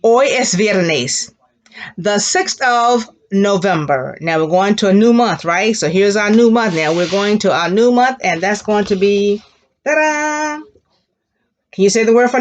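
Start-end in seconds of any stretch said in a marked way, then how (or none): 0.0-1.3 slow and clear, each word apart; slow repeat-after-me model; slow model sentence. Shown as a demonstration. 9.9-10.6 high showy fanfare ta-da; playful big reveal. Pretend. Teacher revealing new month.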